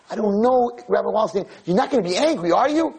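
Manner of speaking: put-on girl thing. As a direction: sound out the rabbi like a worried girl. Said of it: "She starts the whole girl thing".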